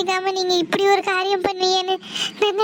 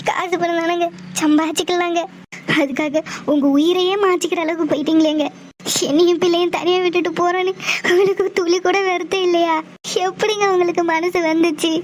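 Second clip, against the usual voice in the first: choked, tearful plea to her husband; tearful pleading. Acted. Wife pleading with her husband not to leave them, tearful and choked.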